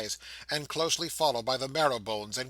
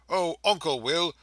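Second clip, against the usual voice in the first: a lightly voiced eager little girl; higher, breathless child's delight; little girl's voice; 4 semitones higher, 3 dB louder than usual. Child's voice greeting uncle.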